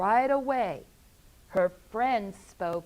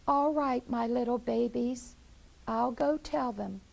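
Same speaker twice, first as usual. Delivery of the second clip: a hint of Henrietta; 4 semitones higher than usual. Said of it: "she said".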